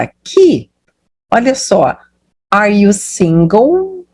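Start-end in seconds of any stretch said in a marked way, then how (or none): 2.5-4.0 "Are you single?" drawn out, lifting at the end; question intonation. Shown as a demonstration. Teacher introduces the yes-or-no question, slow question intonation. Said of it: "vai ter uma entonação de pergunta".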